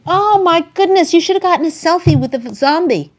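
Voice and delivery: high, bright-eyed great-aunt voice; excited old aunt. Retold or imitated. Aunt telling her grandson he should have taken a zombie selfie, high and thrilled. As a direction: gush like a delighted ninety-eight-year-old.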